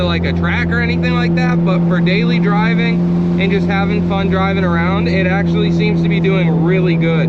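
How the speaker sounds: talking over road and wind noise; car windows down. Real, not acted. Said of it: "Sorry for any wind noise".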